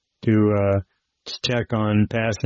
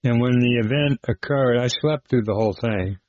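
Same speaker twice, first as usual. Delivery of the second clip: usual speaking voice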